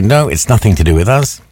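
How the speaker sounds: light mock German accent. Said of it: "but in a German accent".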